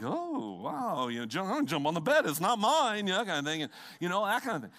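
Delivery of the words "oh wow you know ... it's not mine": giddy hotel guest. Retold or imitated. Guest bouncing on a hotel bed, playfully excited. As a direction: play a kid thrilled by a hotel bed. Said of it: "It's like".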